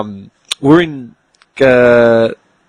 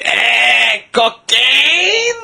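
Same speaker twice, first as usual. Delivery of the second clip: much higher, questioning dealer voice; drunk street dealer; 10 semitones higher, much slower than usual. Retold or imitated. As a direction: offer drugs like a drunk stranger. Drunk street dealer offering drugs.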